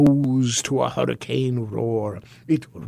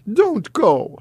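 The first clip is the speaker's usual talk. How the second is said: a touch of pleading, raised; 8 semitones higher than usual. Acted. Herschel begging the goblin to stay, mild plea. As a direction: mildly beg him to stay. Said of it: "Herschel pleaded".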